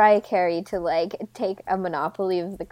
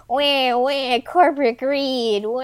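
slow whiny crybaby wail; whiny baby; 3 semitones higher, much slower than usual. Retold or imitated. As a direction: whine like a giant baby. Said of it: "I sound like a giant baby".

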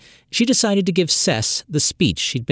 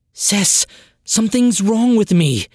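rasped; 8 semitones higher, 4 dB louder than usual. Acted. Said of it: "Trin rasped".

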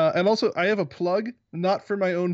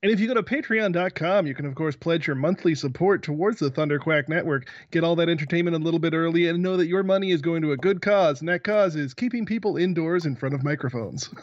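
silky radio announcer read; smooth as butter, like a radio ad. Shown as a demonstration. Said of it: "That was my smooth announcer voice".

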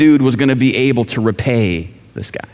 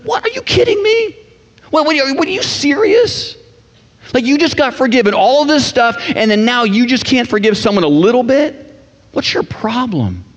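much higher, incredulous "are you kidding me?"; outraged disbelief; 10 semitones higher than usual. Pretend. Pastor voicing a reader yelling at the Bible, high and incredulous. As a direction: scold the servant in shocked disbelief. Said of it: "you start talking to your Bible".

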